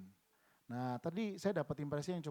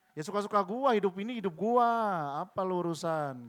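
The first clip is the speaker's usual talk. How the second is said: cocky, louder mock of a carefree worldly man; 3 semitones higher, 6 dB louder than usual. Preacher mocking a worldly man's careless reply. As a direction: sneer it like someone who answers to nobody. Worldly person voiced in sermon.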